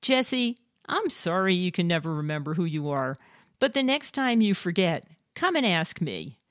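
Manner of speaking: a touch of sweetness, as a polite comeback; mock sweet voice. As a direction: lightly imitate a sweetly apologetic husband. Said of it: "in a sweet voice".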